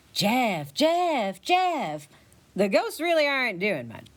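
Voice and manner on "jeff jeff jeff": ghostly yelling. Acted. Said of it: "getting louder and closer to you while still yelling".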